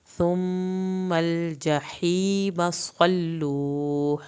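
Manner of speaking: slow melodic tajweed recitation; measured Quranic chant, vowels stretched. Shown as a demonstration. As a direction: recite it slowly, drawing out every long vowel. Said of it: "میم کی شد پہ ایک الف کے برابر دیر".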